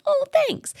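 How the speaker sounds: very high, squealed giddy thanks; giddy high-pitched oh thanks. Retold or imitated. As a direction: gush like a flattered mom. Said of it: "I would get giddy".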